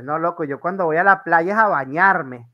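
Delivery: voz más fuerte y arrastrada al final, burlona; búrlate del plan, alargando "a nadar"; venezolano burlón. Retold or imitated. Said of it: "y tú dices". (venezolano burlón que alarga "a nadar")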